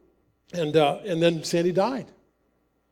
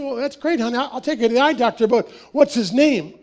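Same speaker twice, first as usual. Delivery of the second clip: sweet clueless dad; 4 semitones higher than usual. Retold or imitated. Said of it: "I said".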